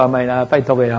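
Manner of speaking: coaxing plea. Retold or imitated. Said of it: "我还可以撒娇".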